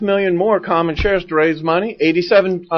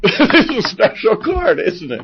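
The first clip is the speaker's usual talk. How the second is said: laughing mock quote; 4 semitones higher, slower than usual. Mocking the waiter line.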